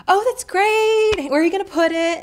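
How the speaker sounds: over-friendly sales voice, sung out high and loud; gushing friendly salesperson. Retold or imitated. Salesperson fussing over a customer's TV purchase, gushingly friendly. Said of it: "which is friendly".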